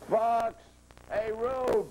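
rallying shout across a brawl; shouted alarm. Acted. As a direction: yell it out to rally the gang. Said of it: "shouted Ben".

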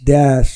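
ড্যাশ with an open a, like dash; দেশ said as ড্যাশ; Bangali dialect pronunciation. Shown as a demonstration. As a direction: say ড্যাশ with a wide open vowel. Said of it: "এইরকমভাবে উচ্চারিত হয়".

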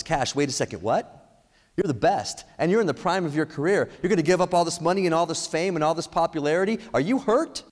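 acted disbelief, pitch climbing to a high question; mock-incredulous owner building toward a high, worried question; incredulous dog owner. Owner questions her champion dog's wish to quit, mounting disbelief. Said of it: "the owner looks back at the dog and says".

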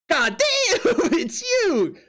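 high, laughing exclamation. Real, not acted. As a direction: burst out laughing at the joke. Laughing at a drawing of him.

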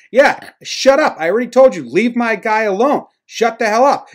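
high, loud mock manager's rant; retold angry Renteria. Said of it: "Renteria says".

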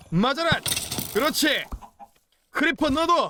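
high, excited attack calls; battle cry. Real, not acted. Gamer attacking creepers with a boomerang, excited high cry. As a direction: call out high as each throw goes.

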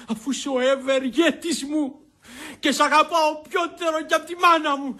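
put-on gushing drunken praise; effusive, rising tipsy declaration; tipsy affection. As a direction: declare devotion with boozy grandeur. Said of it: "πόσο κρασί πεις απόψε".

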